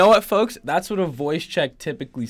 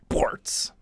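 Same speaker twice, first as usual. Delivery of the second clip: whispered. Acted. Segment name whispered.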